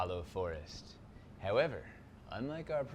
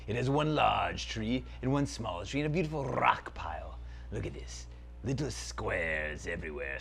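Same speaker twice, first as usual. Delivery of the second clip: dark lord. Acted. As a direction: savour every word like an evil prince. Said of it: "Zaltar, Prince of Phantasm".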